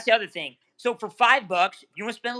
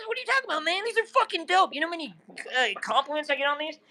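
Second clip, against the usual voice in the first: shouting; 6 semitones higher, much faster than usual. Real, not acted. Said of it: "Why are you yelling at me?".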